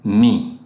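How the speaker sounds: Me said clearly as "meh"; Serer word me. Shown as a demonstration. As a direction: model the Serer Me for the learner. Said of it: "Me in Serer means I".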